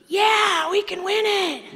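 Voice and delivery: high, loud burst of naive enthusiasm; eager shout. Retold or imitated. Freshman answering the coach in a silent locker room, eager shouting. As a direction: cry it out like an overkeen rookie.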